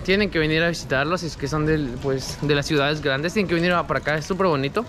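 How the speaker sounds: muffled behind cloth mask; speaking through covered mouth; through a face mask. Real, not acted. Seen 2: Vlogger's face clearly shown wearing mask over mouth throughout.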